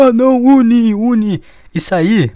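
put-on high, loud pleading kid voice, slowing down; a boy begging the unicorn, high and loud; little boy Bob. Bob the kid pleads with crying Uni, high and loud. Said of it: "Aí o Bob ... o gurizinho".

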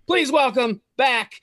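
slow, high, loud hammed-up game-show host intro; mock announcer. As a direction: introduce yourself like a grand MC, laughing at the end. Guest announces himself like a host.

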